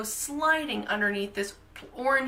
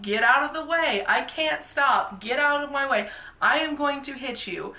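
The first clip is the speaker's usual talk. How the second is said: retold yelling; 5 semitones higher than usual. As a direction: yell a warning down the slope, half-acted. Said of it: "I yell things like".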